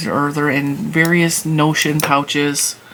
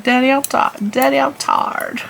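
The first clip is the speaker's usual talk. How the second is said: high, slow Southern drawl, restarted; Southern drawl joke; 9 semitones higher than usual. Retold or imitated. Sisters repeat their running joke in a Southern drawl. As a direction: replay the old family joke in a thick Southern twang. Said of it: "that was a running joke for years".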